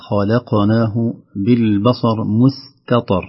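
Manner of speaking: خلقناه بالبصر مستطر with each light and heavy letter clearly separated; letters kept distinct. Shown as a demonstration. Sheikh quoting a verse listeners misread, slow careful recitation. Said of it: "تخليص المرقق من المفخم".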